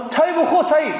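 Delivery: high-pitched offhand invitation; imitating cheeky kid. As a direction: play a youngster talking down to an elder. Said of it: "저한테 이렇게 얘기해요". (반말하는 아이 흉내)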